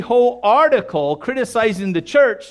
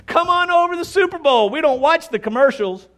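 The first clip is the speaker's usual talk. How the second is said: cheerful invite; 8 semitones higher, faster than usual. Retold or imitated.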